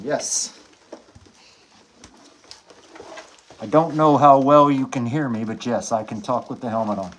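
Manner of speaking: muffled behind a helmet; talking through a full-face helmet; inside a helmet. Real, not acted. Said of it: "Can you talk with the helmet on?".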